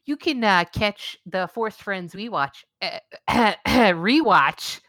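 slow, tipsy slurring read. Pretend. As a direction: stumble through like a bit drunk. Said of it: "I gotta stop drinking this Zima".

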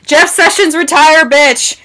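high, punchy heckle; mock angry call-out. Podcaster heckling a politician for laughs, mock angry call-out.

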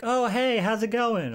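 high-pitched, chatty kid impression; casual kid. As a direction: imitate a child saying a breezy hello. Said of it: "just are straight up just talking like".

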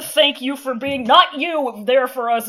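slow, mock-earnest meme read; a lightly done thank-you meme voice. Parodying Lan Xichen with a meme line, mock earnest. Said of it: "meme voice".

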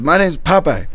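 high-pitched street holler; yelling out. Retold or imitated. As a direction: imitate a man yelling his introduction. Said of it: "this guy yells out to me".

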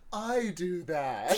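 drawn out slowly through a laugh; quoting the line while cracking up; laughing slow quote. Retold or imitated. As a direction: stretch it out, half laughing. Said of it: "the exact same energy".

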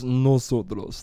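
slow drawn-out "nosotros"; mock Spanish drill. Recalling how Spanish class began, slow mock drill. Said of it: "started off with just".

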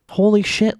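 sudden high exclamation of disbelief; stunned realization. Real, not acted. Podcaster realizing a legendary voice actor was there, stunned. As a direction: blurt it out, genuinely floored.

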